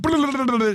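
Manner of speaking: mock rapid gibberish. Mimics the AI spouting Portuguese.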